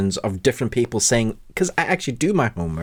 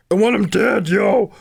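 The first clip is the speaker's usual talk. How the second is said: mock intense quote; 10 semitones higher, 4 dB louder than usual. Mimics friend's intense quote.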